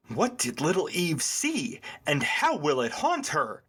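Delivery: lightly hammed-up movie synopsis read; dramatic blurb reading. Cohost reads the IMDb blurb to the other, dramatically. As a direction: read it like a gothic trailer, with swooping emphasis.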